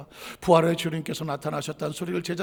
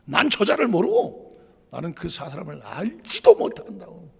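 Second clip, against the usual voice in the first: raised swearing voice; 6 dB louder than usual. Retold or imitated. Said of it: "목소리를 올려가면서".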